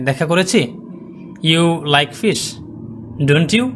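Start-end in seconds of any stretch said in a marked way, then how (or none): 1.4-3.7 "don't you" with "you" lifted; rising tag question. Shown as a demonstration. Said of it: "এখানে আমাদের rise করতে হবে".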